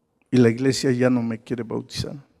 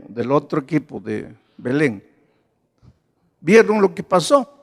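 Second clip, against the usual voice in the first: usual speaking voice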